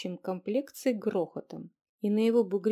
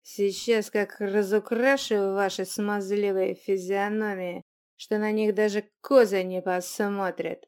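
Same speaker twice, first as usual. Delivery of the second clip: threatening; 5 dB louder than usual. Acted. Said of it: "пригрозил он".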